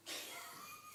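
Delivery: sudden high-pitched laughing squeal; high squeal of laughter. Real, not acted. Recalling the onstage blunder, a high laughing squeal.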